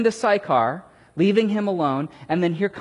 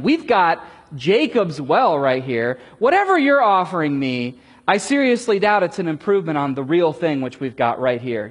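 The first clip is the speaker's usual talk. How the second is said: defiant reminder; 5 dB louder than usual. Retold or imitated. Samaritan woman reminding Jesus of Jacob's well, defiant and loud. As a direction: hold your ground about the well. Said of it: "She's reminding him".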